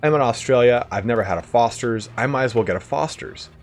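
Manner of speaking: excited tourist. Retold or imitated. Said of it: "he goes to a bar and he's like".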